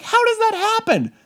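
high, baffled disbelief; disbelieving. Retold or imitated. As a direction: ask it in total disbelief. Incredulous at trampling news.

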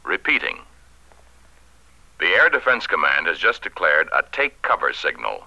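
solemn emergency radio announcement; grave civil defense broadcast. Acted. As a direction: read it like an official alert. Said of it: "this two-page speech for the radio announcer".

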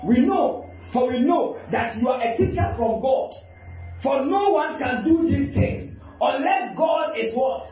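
quoting Nicodemus with rising fervor; preaching at full force. Acted. Preacher voicing Nicodemus to Jesus, preaching fervently. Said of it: "So he said".

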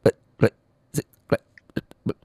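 faking a breaking-up phone line, stuttering syllables; choppy bad signal. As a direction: cut yourself off mid-word like a dropping call. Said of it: "Halo, maaf, Mas, putus-putus".

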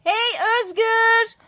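slow, high, loud hail; calling out. Acted. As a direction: shout across the street. Calling out from the window.

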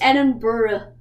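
"Edinburgh" demonstrated as ED-in-buh-ruh; smushed Edinburgh pronunciation. Shown as a demonstration. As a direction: say "Edinburgh" with the syllables smushed together. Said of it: "It's just kind of smushed together".

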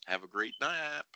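whispered, mock bedtime tone; whispering. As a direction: whisper it like tucking in. Mock lullaby after knockout.

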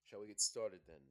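slight London accent on the question. Real, not acted. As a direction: ask it with a hint of a London accent. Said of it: "Why'd you change the accent for?".

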